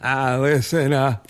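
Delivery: put-on goofy comic impression, rising in pitch; Adam Sandler. Comedian doing Sandler for a man eating steak, goofy impression. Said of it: "do your Adam Sandler".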